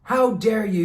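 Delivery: angry director yelling; retold yell. Director yelling at a kid who missed a line. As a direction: snap it like a furious director. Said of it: "yelled at me and said".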